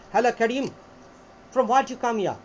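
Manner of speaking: British accent, "from where you come here" run together; British accent style. Shown as a demonstration. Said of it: "ব্রিটিশদের দুটো accent style আছে".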